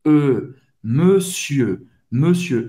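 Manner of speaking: "monsieur" as meu-syeu, rounded lips on E; "monsieur" with closed EU and silent R; closed French E. Shown as a demonstration. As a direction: say E through an O-shaped mouth, then "monsieur". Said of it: "faz a boca do O e fala E".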